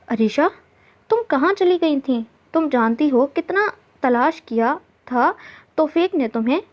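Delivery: pressing for answers, restless with worry; mild anxious urgency. Acted. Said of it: "बेचैनी से बोली".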